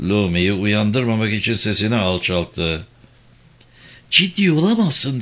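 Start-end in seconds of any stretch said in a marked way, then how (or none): 4.1-5.2 high, tense suppressed anger; through gritted teeth. A narrator's reading. Woman holds back anger so the child sleeps, through gritted teeth. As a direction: hold the anger in, jaw clenched. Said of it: "dedi dişlerini sıkarak".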